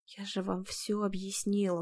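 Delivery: soft, slow and tired; exhausted repeating herself to the investigator; weary. A narrator's reading. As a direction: sigh it out tiredly. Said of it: "устало повторила я".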